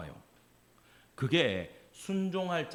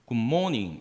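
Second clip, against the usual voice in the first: Gyeongsang-tone English; 4 semitones lower, slower than usual. Shown as a demonstration. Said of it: "이렇게 해버려".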